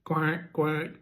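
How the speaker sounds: clear, clean female duck quack imitation. Shown as a demonstration. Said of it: "let's do a duck first".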